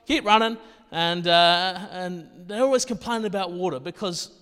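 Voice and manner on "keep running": loud, raised sideline call; coach calling out. Retold or imitated. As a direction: shout encouragement across the field. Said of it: "And I say".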